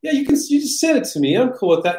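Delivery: high, quick breezy yeah-yeah; offhand high dismissal to get rid of you; a high, fast, casual wave-off from the marketing manager; Mark brushing off. Retold or imitated. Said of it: "And he's like".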